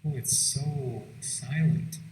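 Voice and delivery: drawn-out words; slow, awed remark. Real, not acted. Visitor left in the empty prison, slow and hushed. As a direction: stretch it out slowly into the silence. Alone in the silent cell block.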